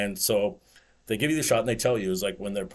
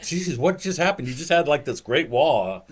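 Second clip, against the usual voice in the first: surprised; 4 semitones higher, 5 dB louder than usual. Retold or imitated. Retelling shock over lost stack.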